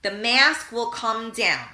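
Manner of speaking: slow, measured airline safety spiel; flight attendant safety announcement. Retold or imitated. Host mimicking the airline safety speech, slow and measured. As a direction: recite it like a cabin crew announcement. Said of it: "what do they say?".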